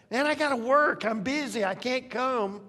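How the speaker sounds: a hint of a harried excuse; making excuses. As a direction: mimic someone too busy to come. Mimics funeral no-shows making excuses.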